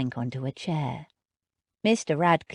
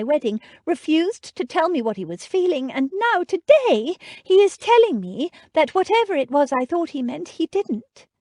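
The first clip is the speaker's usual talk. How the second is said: put-on higher, tearful young woman; upset heroine on the verge of tears; near tears; 7 semitones higher, 5 dB louder than usual. A narrator's reading.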